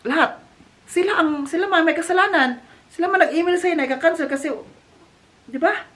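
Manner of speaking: hammed-up outrage, rising as he goes; Dad Uwe indignant over the fee, mock angry and rising; indignant protest. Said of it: "Si Dad Uwe na shocked".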